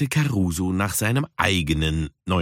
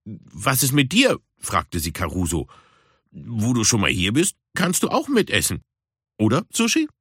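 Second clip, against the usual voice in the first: Puma inviting; 2 semitones higher than usual. Acted. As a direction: invite him to eat along. (höher, einladend)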